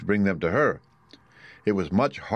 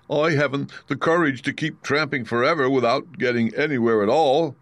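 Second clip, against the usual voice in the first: a mild, lightly voiced whimper, a touch higher; 5 semitones higher than usual. A narrator's reading. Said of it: "with a whimper".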